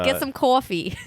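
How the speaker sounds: imitating a New York tough guy; gruff New York street voice; New York accent. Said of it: "in a New York accent".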